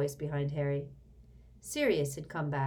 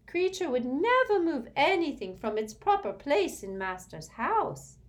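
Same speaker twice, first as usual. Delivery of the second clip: indignant house-elf; 11 semitones higher, 6 dB louder than usual. A narrator's reading. House-elf denies stealing to Sirius, high and indignant. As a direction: protest innocence like an offended servant.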